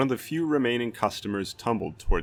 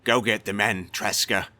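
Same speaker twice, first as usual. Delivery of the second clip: louder urgent call; guard shouting to his comrade, louder and urgent; shouted order; 4 dB louder than usual. A narrator's reading. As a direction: call across the room to a comrade. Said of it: "he shouted to the third guard".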